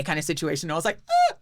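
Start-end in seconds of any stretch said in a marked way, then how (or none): 1.1-1.3 short high mock yelp; startled yelp. Grabbed by the neck by an escort, a mock startled yelp. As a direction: let out a little retold squeal. Retold reaction to being grabbed.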